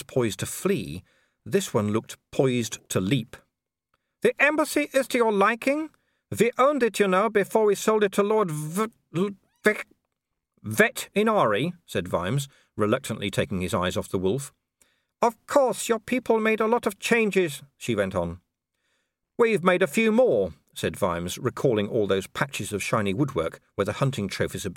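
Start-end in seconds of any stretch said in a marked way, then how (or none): 4.2-11.7 high, polite baroness voice with a thin smile; a smiling aristocrat who means none of it; cool hostess smile. A narrator's reading. 15.2-17.6 high, polite baroness voice with a thin smile; a smiling aristocrat who means none of it; cool hostess smile. A narrator's reading. 19.4-20.5 a dry, understated copper's retort; dry Vimes. A narrator's reading. Vimes voiced in dialogue.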